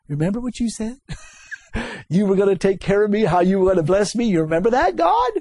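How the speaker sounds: quick, insistent reminder that rises to a cry of God; pleading with God. Retold or imitated. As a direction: remind God of his promise, then cry his name out. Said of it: "Jacob kept telling God".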